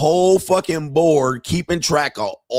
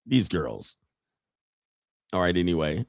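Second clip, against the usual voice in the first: quiet; 7 semitones lower, 8 dB quieter than usual. Real, not acted. Drops voice, aside.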